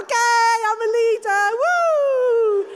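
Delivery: loud, high triumphant whoop; acted exuberant comeback; flying again. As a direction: burst out revived, rising into a whoop. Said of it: "I start flying again".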